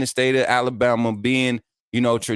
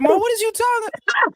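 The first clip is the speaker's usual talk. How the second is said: very high squeaky exasperated voice; cartoonish high-pitched disbelief; mock exasperated. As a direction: squeal it in total confusion. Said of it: "I be like".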